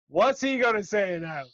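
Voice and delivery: mock irritated sneer. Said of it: "his smile irritated me".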